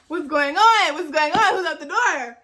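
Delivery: mildly alarmed retold reaction; startled. Woken student answers pounding at the door, startled. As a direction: call out, startled by the knock.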